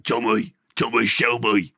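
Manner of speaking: Peaky Blinders Birmingham; brash gangster Brummie; brash Brummie accent. Acted. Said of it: "Peaky Blinders Birmingham accent's good".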